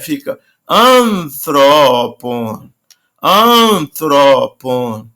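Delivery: "antropon" drawn out, stress back on the first syllable; slow stress demo. Shown as a demonstration. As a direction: model "antropon" slowly. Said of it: "como ele é breve". ("antropon" bem devagar)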